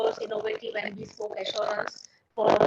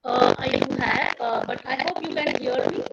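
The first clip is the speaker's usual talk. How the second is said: underwater; 5 dB louder than usual. Real, not acted. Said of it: "sounds like you're underwater".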